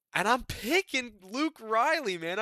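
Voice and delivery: hammed-up British accent; bad British accent. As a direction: stretch it out like an over-the-top British fan. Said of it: "I'm not gonna do the British accent anymore".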